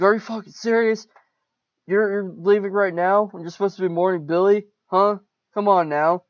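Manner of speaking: furious father scolding his daughter; angry dad yell. Acted. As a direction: berate her for walking out. Father yelling at leaving daughter.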